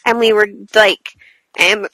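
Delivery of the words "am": speaking through the hiccups. Real, not acted. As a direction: cut off by a hiccup. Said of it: "got the hiccups".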